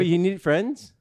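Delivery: high rising mock shock; mock surprise. Real, not acted. Player feigning shock about needing friends, mock surprise. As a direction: act stunned that friends are needed.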